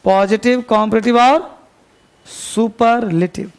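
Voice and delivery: slow it down so students can write; slow dictation. Shown as a demonstration. Teacher dictating a list to students, slowly. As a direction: dictate it slowly, the last word stretched out. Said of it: "पहले उसका list बनाइए".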